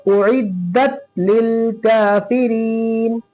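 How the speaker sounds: slow, drawn-out chanted recitation; Quran recitation. Shown as a demonstration. Teacher reciting for students, slow and melodic. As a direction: recite slowly, stretching each vowel.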